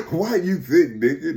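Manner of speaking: voiced aloud through a laugh; laughing repeat. Repeating the whispered question to listener, laughing.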